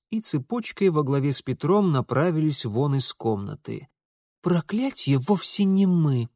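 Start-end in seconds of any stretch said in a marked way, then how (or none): 4.4-6.3 put-on higher, slow sulky girl's retort; grumbling. A narrator's reading. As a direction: grumble back on the way out. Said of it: "пробурчала Лидия".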